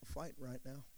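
soft, restrained, with long pauses; quiet fighter voice. Acted. Preacher voicing people who walk big, quiet fight voice. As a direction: understate it, no yelling at all. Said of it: "they're not yelling, they're not screaming".

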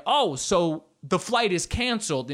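hammed-up pointed disbelief, drawn out; imitated indignant passengers. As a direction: push back like an affronted passenger. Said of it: "People are up in arms".

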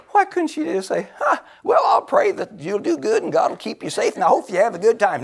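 voicing the kinder sister he wished for; what she should have said. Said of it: "I said".

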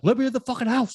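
high-pitched movie-villain demand; mock angry demand. Recalling a scene at the peephole, mock angry demand. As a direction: play-act demanding to be let in.

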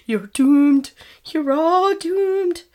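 Crazy Ralph doom warning, slow and loud; ominous prophet of doom, drawn out; slow ominous raspy drawl. Retold or imitated. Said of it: "now he's Crazy Ralph".

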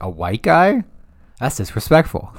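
high, loud mock outrage at being guarded by a white guy; hammed-up indignant shout, high and loud. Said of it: "he was like".

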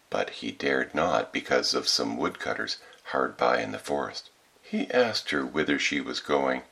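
story narration. A narrator's reading. Reads a fairy tale.

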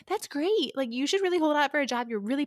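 imitating his eager encouragement, high and loud at first; excited. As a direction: gush supportively as the excited friend. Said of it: "And he gets really excited".

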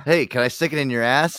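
mock woman's come-on. Voicing the woman he imagines.

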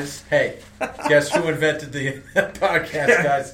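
smug, drawn-out boast; bragging Seattle voice. Retold or imitated. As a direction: brag like you invented it.

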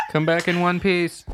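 loud, high, laughing call; real laughter calling after him; laughing shout. Real, not acted. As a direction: yell it through laughter.

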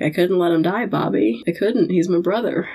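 tearful plea. Retold or imitated. Dean explaining to Bobby why he made the deal, tearful. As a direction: plead softly, holding back tears. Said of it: "and tearful".

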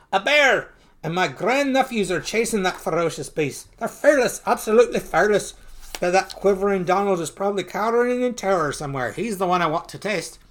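lightly acted marvelling exclamations; Uncle Scrooge, amazed. Watching grandnephews chase a beast, high admiring amazement.

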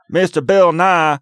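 dumb hick. Retold or imitated. Heckler confronting Bill Nye about God, mocking hick voice. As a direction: play a dim country bumpkin questioning someone. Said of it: "the one dumb hick that comes up".

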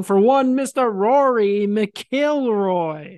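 slow, drawn-out Irish announcer; playful Irish lilt, name stretched out; mock Irish accent. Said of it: "I was getting my Irish accent on".

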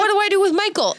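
a hammed-up helpless cry to the mask; mock despair. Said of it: "I'm like".

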